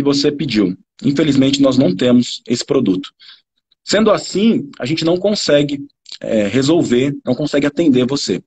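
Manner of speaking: low, halting customer-service refusal; unhelpful refusal. Shown as a demonstration. Attendant tells a customer the product is unavailable, coolly. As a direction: deliver the bad news coolly, dropping low. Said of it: "A mesma coisa, né? Ou seja, com a entonação".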